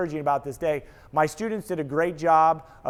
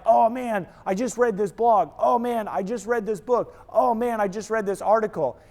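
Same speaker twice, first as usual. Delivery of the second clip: higher-pitched, eager imitation of a name-dropper; mock-excited, lifted voice; gushing mock enthusiasm; 3 semitones higher than usual. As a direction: imitate someone excitedly showing off their latest read. Mimics people who only make statements.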